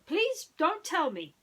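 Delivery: mild pleading cry. Acted. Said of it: "Basil cried".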